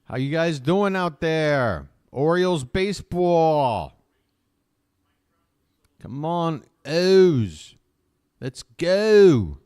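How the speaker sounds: loud, high, drawn-out holler; big stretched-out rallying yell; rousing fan shout. Real, not acted. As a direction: belt it out like a cheer to the whole crowd. Calling out to team and fans.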